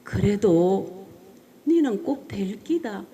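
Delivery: slow, steady, lightly voiced mother; each word placed slowly and calmly; low mother's voice. Mother on the phone, briefly reassuring her daughter, slow and calm. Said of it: "아주 낮은 목소리로".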